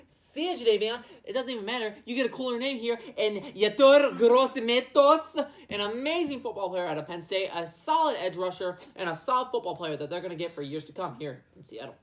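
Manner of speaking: lightly voiced laughing team brass; a breezy, chuckling send-off; Seahawks front office. Seahawks front office, laughing, waving off Clowney. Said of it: "So they're gonna be like".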